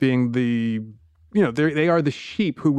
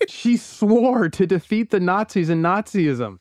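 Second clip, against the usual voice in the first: superhero voice. Pretend. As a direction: boom it out like a comic-book hero. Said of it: "this is my superhero voice".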